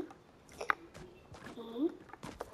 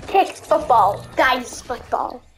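mock slow motion; 3 semitones lower, 4 dB quieter, slower than usual. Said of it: "boys be like in slow motion".

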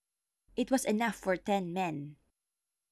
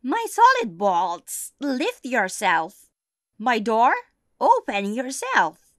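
witch's incantation; 4 semitones higher, 10 dB louder, slower than usual. Acted.

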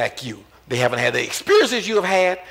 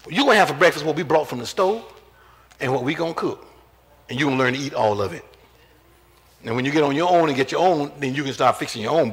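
strict parent; faster than usual. Retold or imitated. Voicing strict parent to children.

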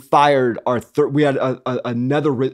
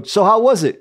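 excited question; 6 semitones higher than usual. Retold or imitated. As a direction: ask it all keyed up, keen to hear. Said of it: "I was kind of excited".

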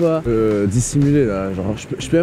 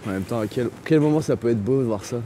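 whispering while hiding; 6 semitones lower, 6 dB quieter than usual. Real, not acted. Talking quietly while hiding.

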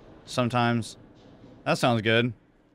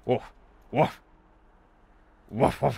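short mouthed woofs; dog bark imitation. Player voices a dog behind the door, mock barking.

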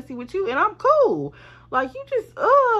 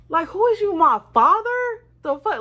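sassy retort; 11 semitones higher, 6 dB louder than usual. Real, not acted. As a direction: put him in his place, sarcastic. Mocking a controlling friend.

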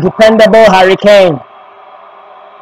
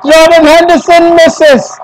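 high, drawn-out disbelief; high, stretched-out cry of dismay; stunned commentary; 5 semitones higher than usual. Real, not acted. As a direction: lament the miss in real shock. Live reaction to missed penalty.

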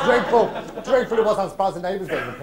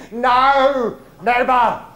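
higher, louder cry of never; mock outburst; 6 semitones higher, 6 dB louder, much slower than usual. Old pro swearing off mince, loud theatrical refusal. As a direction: shout it out with hammy vigour.

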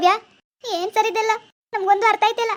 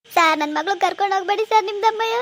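loud, desperate plea; tearful pleading; 5 dB louder than usual. Acted. Mother begging the officer again, loud tearful plea. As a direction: beg through tears.

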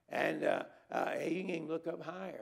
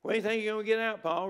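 eager visitor, fast; 6 semitones higher, 9 dB louder, faster than usual. Retold or imitated. Visitor questioning Paul in jail.

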